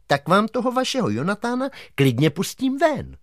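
a hint of a dignified old croc. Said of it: "řekl zvýšeným hlasem".

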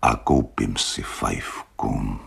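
slow, dreamy wish. Acted. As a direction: drift off into a daydream.

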